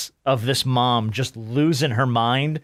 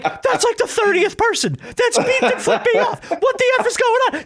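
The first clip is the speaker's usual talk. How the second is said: much higher, laughing mock mom voice; freaking-out mom; 3 dB louder than usual. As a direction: play the baffled mom losing her mind. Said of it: "she's like".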